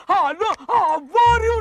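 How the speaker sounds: drawn-out phone greeting. Retold or imitated. Man re-enacting his call to a friend, drawn-out greeting.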